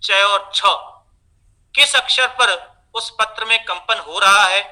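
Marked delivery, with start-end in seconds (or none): 0.0-0.6 plain च, then छ with a puff of breath; unaspirated-aspirated contrast. Shown as a demonstration. Teacher showing breath contrast to trainees, च unaspirated, छ aspirated. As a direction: let छ release more air than च. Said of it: "अल्प प्राण और महाप्राण".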